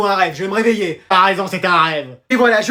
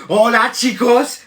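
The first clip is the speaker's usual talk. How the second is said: mock Spanish teacher; 3 semitones higher, much slower than usual. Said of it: "elle va encore nous crier".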